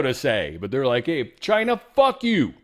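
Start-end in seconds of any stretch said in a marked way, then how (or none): 1.1-2.5 very high, loud put-on yell; hammed-up shouted insult; mock defiant shout. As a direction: holler it as a cocky taunt. Acts out Ukraine defying China.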